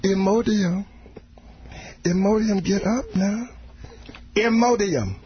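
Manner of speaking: put-on father waking his late kid; parent calling kid out of bed. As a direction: wake the kid up and scold. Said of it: "he's yelling at his young children".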